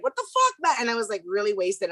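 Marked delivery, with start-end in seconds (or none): 0.0-0.7 put-on drunk outburst. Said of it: "And then I was like".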